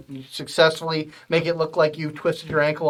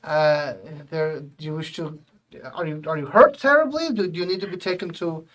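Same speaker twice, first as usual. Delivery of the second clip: startled helpful man; 4 dB louder than usual. Acted. GM voices the man.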